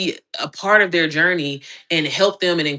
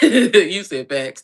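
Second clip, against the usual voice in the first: laughing; 3 dB louder, much slower than usual. Real, not acted. Reading a comment, laughing.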